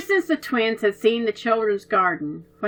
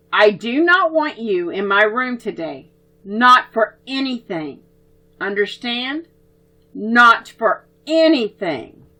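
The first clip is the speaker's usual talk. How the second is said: stern warning; 4 dB louder than usual. Acted. Oliver warning the twins to keep out, stern. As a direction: lay down the rule to the twins.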